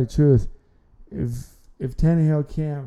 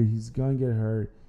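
"gonna get hurt" said softer, a resigned echo; quiet repeat; 3 semitones lower, 5 dB quieter than usual. Real, not acted.

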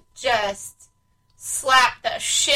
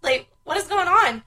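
retold protest; 5 semitones higher than usual. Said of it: "I'm like".

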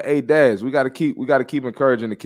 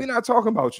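exasperated call-out; 11 semitones higher, faster than usual. Real, not acted. Repeated call-out, higher pitch.

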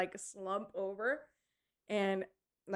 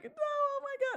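retold shock. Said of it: "Taylor walked up and she was like".

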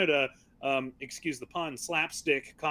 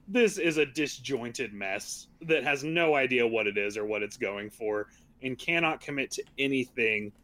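low, earnest verdict; dropping the sarcasm; 6 semitones lower than usual. Real, not acted. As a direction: say it straight, in a lower voice. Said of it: "part the veil of sarcasm".

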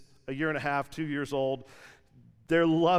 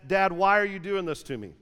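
put-on upset kid; 3 semitones higher, 4 dB louder than usual. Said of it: "Colossal fit".

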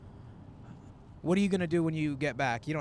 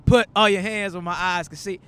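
a rapper; 5 semitones higher, 12 dB louder than usual. Retold or imitated. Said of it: "has that deep of a voice".

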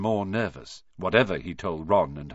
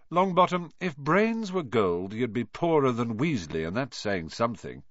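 sneering; 3 semitones higher than usual. Acted. Malfoy sneers at Neville.

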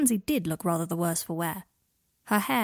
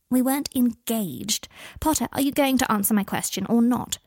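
sneering; 3 semitones higher, 4 dB louder than usual. Acted. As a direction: sneer the denial, then demand. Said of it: "Pansy sneered at him".

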